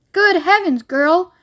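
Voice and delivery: high alarmed outcry; a mother suddenly frightened; sharp startled exclamation; shrieked. A narrator's reading. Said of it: "shrieked Missus Beauregard suddenly".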